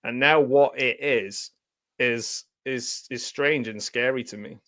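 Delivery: lightly voiced old man, slowing down midway; measured, puzzled grandpa rambling; Grandpa Simpson. Dodging the shirt question, rambling old-man impression. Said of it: "Grandpa Simpson, I thank you".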